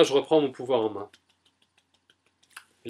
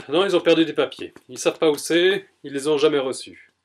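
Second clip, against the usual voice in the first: real anger; 3 semitones higher, 5 dB louder than usual. Real, not acted. Venting at the lost-paperwork office, raised and heated. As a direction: let the frustration spill out. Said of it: "Ça me met vraiment en colère".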